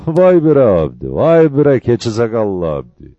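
loud, laughing disbelief; laughing in amazement. Acted. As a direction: laugh it out, marvelling at the news. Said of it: "İhtiyarı bir gülme aldı". (kahkahayla, yüksek sesle hayret ederek)

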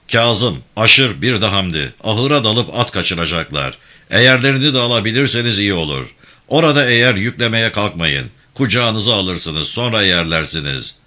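a firm, lightly voiced gang chief giving orders; steady commanding tone, barely apart from the narration; commanding leader. İbrahim Bey gives tasks.

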